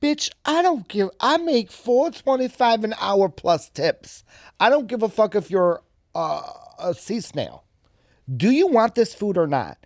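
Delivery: mock a waiter who has had enough; fed-up waiter. Waiter confronting a fussy customer, mock exasperated. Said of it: "exposing the waiter, like".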